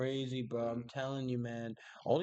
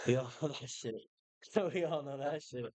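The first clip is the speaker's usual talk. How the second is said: laughing. Real, not acted. Laughing at his own joke.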